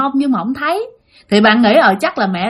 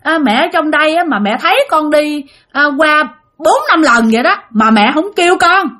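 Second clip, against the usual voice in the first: mild higher-pitched annoyance, retold; resentful grumbling; 5 semitones higher than usual. Child grumbles at the unseen mother for not calling, mild resentment. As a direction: imitate a child complaining, mildly put out. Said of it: "bực bội, bạn hằn học".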